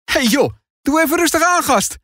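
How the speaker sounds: high, light grinning tone. A narrator's reading. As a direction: tease your brother with a grin. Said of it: "grijnst Noah". (Noah grijnzend tegen zijn broer die hem knuffelt)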